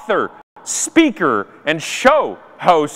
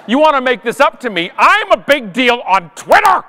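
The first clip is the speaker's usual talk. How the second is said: rising, entitled whine, a touch higher; mock diva demands; 4 semitones higher than usual. Self-styled Twitter diva demanding perks from the airline. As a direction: demand it like a spoiled star.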